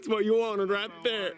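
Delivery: thrilled and laughing after a great shot; excited laughing. Real, not acted. Celebrating a good shot.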